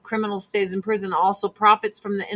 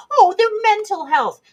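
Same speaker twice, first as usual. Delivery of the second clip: mocking scoff; 11 semitones higher, 6 dB louder than usual. Mocking the excuse.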